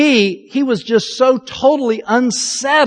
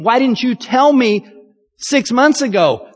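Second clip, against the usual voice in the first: exasperated repeat; 4 semitones higher than usual. Shown as a demonstration. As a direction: push the repeat with frustration. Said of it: "If you know the end from the beginning".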